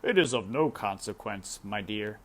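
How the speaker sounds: lightly voiced king; king dismissing. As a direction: wave it away like a king. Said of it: "said the king".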